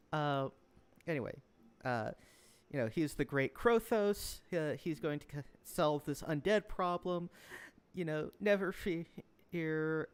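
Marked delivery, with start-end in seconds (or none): 2.9-10.1 lightly voiced grand proclamation; slow, raised, reassuring boast to the crowd; Krothos. Game master summing up lord's speech, lightly pompous. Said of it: "a speech, the gist of which".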